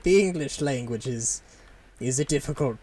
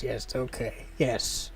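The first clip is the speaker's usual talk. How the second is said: toned-down merchant voice; 3 semitones lower, 5 dB quieter than usual. Acted. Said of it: "Got to bring it back a little bit".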